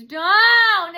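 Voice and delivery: high, loud drawn-out "don't"; mock scream. Imitating hecklers breaking things, mock scream. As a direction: wail it loudly in imitation.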